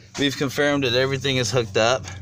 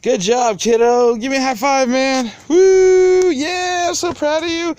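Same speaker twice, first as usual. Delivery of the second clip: potty training praise; 5 dB louder than usual. Real, not acted. Praising child for using potty.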